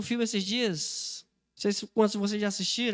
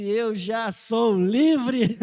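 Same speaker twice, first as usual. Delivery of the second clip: slow, savoured answer; acted serene defiance with a smile; smiling reply; 4 dB louder, much slower than usual. Maria Madalena answering the centurion's offer of freedom, smiling. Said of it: "Ela olhou pra ele sorrindo e disse".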